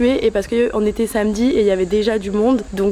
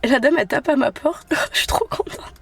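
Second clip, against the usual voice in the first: tearful laughing through tears; choked up, laughing and crying; 3 semitones higher than usual. Real, not acted. Crying while telling the lucky news.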